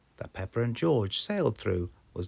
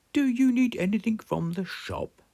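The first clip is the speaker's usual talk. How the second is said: Granny Pig voice; 5 dB louder than usual. Acted. Granny asking at houses.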